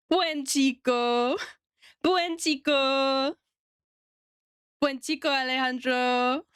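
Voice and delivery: "Buen chico" said slowly word by word in Spanish; careful Spanish. Shown as a demonstration. Streamer trying out freshly translated Spanish praise on Alejandro, slow and careful. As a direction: sound out "Buen chico" slowly, a bit unsure. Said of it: "I learned how to say good boy in Spanish".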